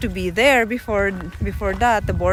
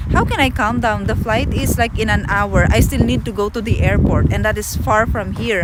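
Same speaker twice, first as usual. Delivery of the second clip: mild upset retelling; 3 dB louder than usual. Retold or imitated. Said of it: "I told him".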